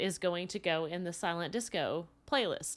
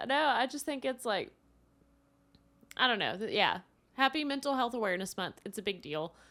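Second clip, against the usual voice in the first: tearful, emotional, choked-up, teary voice; 4 semitones higher than usual. After being told they make someone emotional, the speaker answers while tearing up. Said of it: "I'm tearing up".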